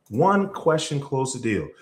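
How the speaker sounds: measured, deliberate restatement; slow repeat. Shown as a demonstration. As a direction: let each word land.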